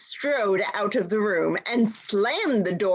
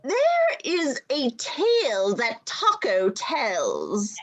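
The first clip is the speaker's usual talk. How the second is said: put-on slow, quavering old recorder; 3 semitones higher, slower than usual. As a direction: let the voice quaver nervously. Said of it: "in a quavering voice".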